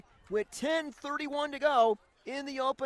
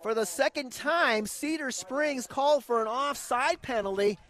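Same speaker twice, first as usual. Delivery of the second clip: play-by-play; 2 semitones lower than usual. Acted. Radio play-by-play.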